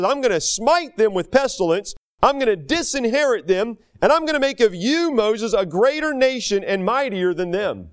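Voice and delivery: God's kindled anger. Acted. The Lord to Moses, vowing judgment, mildly angry. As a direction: declare judgment firmly, with a touch of anger. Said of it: "his anger is kindled against them".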